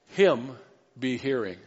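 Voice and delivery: HIM set apart first, then "be hearing" falling; emphatic word order. Shown as a demonstration. Preacher showing the Greek wording, stress on HIM. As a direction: lean on HIM, pause, finish evenly. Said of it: "there's a little more emphasis".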